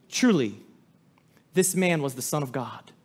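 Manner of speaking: a soldier's low awed confession; hushed awe. Acted. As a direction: breathe it out in awe.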